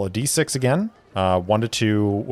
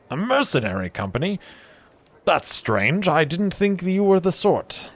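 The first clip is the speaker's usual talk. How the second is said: high, quick startled brewer voice; surprised brewer; 10 semitones higher, faster than usual. Acted. Brewer hearing his friend joined mercenaries, high surprise. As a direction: rock back in surprise.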